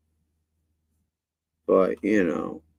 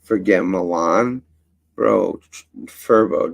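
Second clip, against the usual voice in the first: louder, scoffing retelling of the guy; mock his know-it-all tone, louder; mocking quote; 6 dB louder than usual. Streamer mocking a rival's boast, louder scoffing quote. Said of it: "he says".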